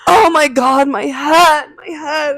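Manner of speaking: high, loud mock wail; retold pained cry. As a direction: imitate a hurt mom crying out over her head. Retold injured mom crying out.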